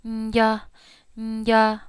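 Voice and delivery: "nya" a little tired, with a nasal buzz. Shown as a demonstration. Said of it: "I'm gonna say it softer".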